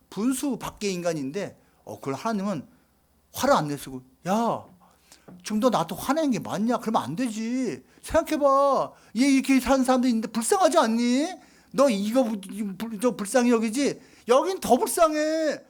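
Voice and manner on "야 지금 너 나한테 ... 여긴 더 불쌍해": God gently coaxing Jonah; a lightly voiced God reasoning with Jonah; persuading. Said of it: "설득을 하고 있어".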